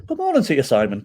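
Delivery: put-on a weak stab at an Irish accent, barely there; half-hearted Irish accent on a phone greeting; failed Irish accent. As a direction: attempt the Irish caller's accent and fall short. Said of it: "Can't do the accent".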